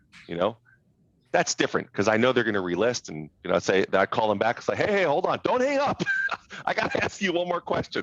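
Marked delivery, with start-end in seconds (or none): 4.7-8.0 very high pleading voice through laughter. Describing calling back an expired listing that hung up: re-enacting laughing while talking. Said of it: "I'd literally say it like that. I'd be like laughing".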